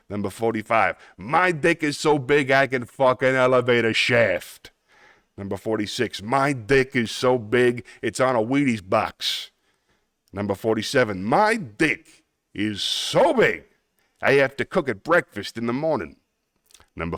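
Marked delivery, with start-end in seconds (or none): 1.2-4.7 put-on Brooklyn accent. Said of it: "Yes, it's a Brooklyn accent". 6.2-9.5 put-on Brooklyn accent. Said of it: "Yes, it's a Brooklyn accent". 11.2-16.2 put-on Brooklyn accent. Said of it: "Yes, it's a Brooklyn accent".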